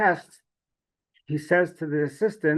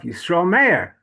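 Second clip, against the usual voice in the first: louder self-admonishing call by name; talking to himself; 3 semitones higher, 5 dB louder, slower than usual. Retold or imitated. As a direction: address yourself firmly, lightly acted. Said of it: "he would start talking to himself".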